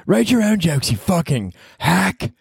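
high, then slow, mock-nasty partner voice; insulting partner. Partner mocking him as a hack, in a high mock-nasty voice. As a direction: sneer it sweetly like a cruel girlfriend.

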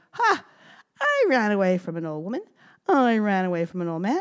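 gingerbread man voice. Acted.

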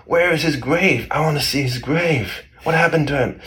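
high, drawn-out cry of the widow; mock distraught wail. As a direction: wail it as a grieving wife, hammed-up. Wife learns her husband is dead.

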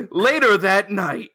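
slow, dramatic narrator. Shown as a demonstration. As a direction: announce it like a title card. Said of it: "That's narrator voice".

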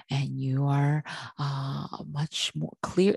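slow, softened and dreamy; calm relaxed voice. Shown as a demonstration. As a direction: talk like you just left a massage. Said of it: "You feel like you're talking like this".

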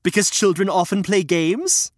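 giggly puppet voice; Reg laughing. Acted. Reg explains his joke, laughing puppet voice. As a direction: laugh through the punchline.

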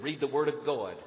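lightly voiced Southern professor making his point; gentle mock professor asking his class; Douglas Kelly impression. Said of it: "That's what he said".

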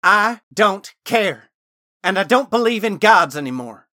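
high, loud, scornful dismissal; forceful, dismissive woman's retort. A narrator's reading. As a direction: throw his plea back at him, loudly. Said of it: "Gwen said dismissively".

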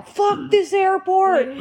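high, slow mock shout broken by laughter; laughing mock yell. Mother imagining what the crowd wants to scream, laughing mock yell. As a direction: yell it as a joke while cracking up. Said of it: "really wanna scream that right now".

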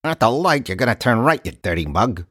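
put-on clipped old-time detective voice; a hint of a hard-boiled gumshoe; 1940s detective. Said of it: "like a nineteen forties detective".

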